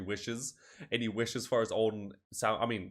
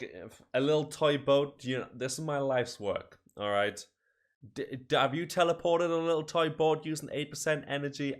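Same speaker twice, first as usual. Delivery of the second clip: raised, higher-pitched protest; mock indignation; 5 semitones higher than usual. Inventor defending his life's work, mock indignant. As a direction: defend yourself with affronted emphasis.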